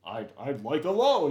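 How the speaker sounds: mock white guy voice asking for a loan; crazy white guy voice. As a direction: put on a goofy white guy voice. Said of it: "his crazy, like, white guy voice".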